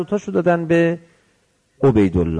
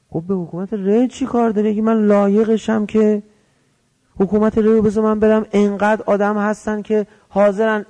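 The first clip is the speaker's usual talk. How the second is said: retold argument, higher in pitch; arguing back; 6 semitones higher, 3 dB louder than usual. Omar Sa'd bargains to keep Rey, arguing back. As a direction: act out a mildly heated bargaining plea.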